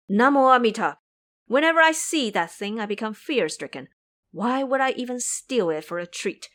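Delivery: monk denying the theft; pious monk protesting. Acted. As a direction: insist you are innocent. Tang monk protests innocence.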